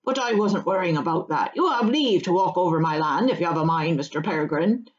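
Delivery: rustic voice building to a sly tease; country farmer, genial teasing. Acted. Farmer teasing Frodo about mushrooms, genial. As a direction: grant leave, then rib the guest.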